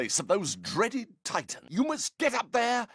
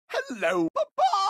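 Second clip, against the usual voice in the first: hello papa shouted much higher and louder; excited high shout; 12 semitones higher, 4 dB louder than usual. Acted. Son greeting his father on arrival, shouting high and excited. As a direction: fling the greeting up high and loud.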